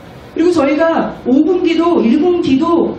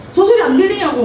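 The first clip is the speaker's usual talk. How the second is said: higher, irritated repeat of the complaint; mock indignant priest; 5 semitones higher than usual. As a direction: press the complaint again, annoyed. Angry priests complain to Jesus.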